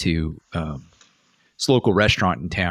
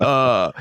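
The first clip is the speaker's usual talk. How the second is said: loud, raised "uh" of mock shock; imitated shocked gasp; 5 semitones higher, 4 dB louder than usual. Parents react to the officer's comeback, mock gasp.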